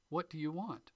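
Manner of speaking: WHAT lifted high, then a fall; stress on WHAT. Shown as a demonstration. Teacher showing listeners stress on WHAT. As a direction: hit the word what hard. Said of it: "when you change the emphasis".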